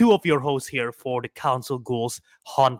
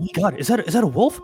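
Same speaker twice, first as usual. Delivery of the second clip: overplayed startled shriek; mock fright; 8 dB louder than usual. Pretend scared of wolf.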